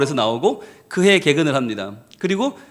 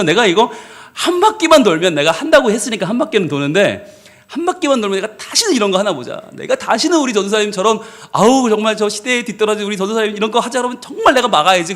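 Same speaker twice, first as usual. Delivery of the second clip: resentful grumble; 3 semitones higher than usual. Retold or imitated. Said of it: "마음이 너무 원망이 들더래요".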